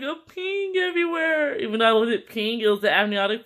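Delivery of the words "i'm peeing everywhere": much higher panicked cry; high alarmed quote. Retold or imitated. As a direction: shriek it in alarm. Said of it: "I was like".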